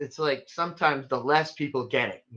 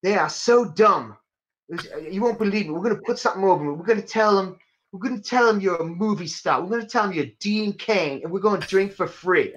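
put-on Cockney accent; 3 semitones higher than usual. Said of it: "had the accent ... a Cockney accent".

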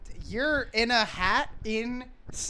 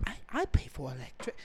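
East Asian accent; 6 semitones lower, 8 dB quieter, faster than usual. Shown as a demonstration. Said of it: "Fu-, I can't do it".

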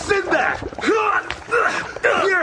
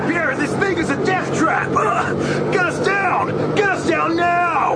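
panicked shouting. Acted. Panic on failing carpet.

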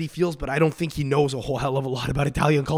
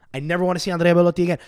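faster, punchier repeat; more emphatic repeat; 4 semitones higher, 3 dB louder, much faster than usual. Real, not acted. Telling viewers he is done with Belotti, emphatic. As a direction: hammer it home the second time.

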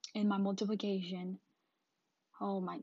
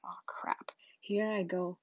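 whispery, resigned aside; hushed dread; 2 semitones lower, 4 dB quieter, slower than usual. Retold or imitated. Pupil to self before a whooping, hushed dread. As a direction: barely voice it, bracing for punishment. Child told to hold hands out.

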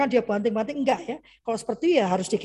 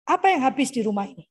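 ordinary talk

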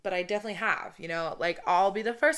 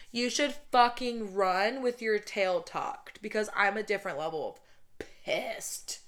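pissed warning. Shown as a demonstration. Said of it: "That's me legitimately fucking pissed".

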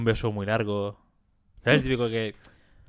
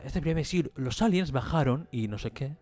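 TV alien expert; 3 semitones higher than usual. Retold or imitated. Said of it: "el tío que habla".

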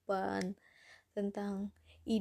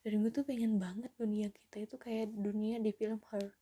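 whispering. Real, not acted. Dreamy wish about film Her. (bisikan penuh harap)

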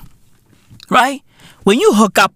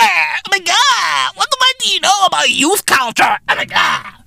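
whiny voice climbing higher and higher into a mock shriek; mocking young critics; 5 semitones higher than usual. Imitating youth mocking a boomer, climbing whine. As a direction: mimic the kids calling him a boomer, rising. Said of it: "they go".

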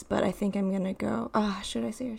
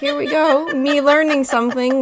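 laughing; 5 semitones higher, 10 dB louder than usual. Real, not acted. Laughing at own mistake.

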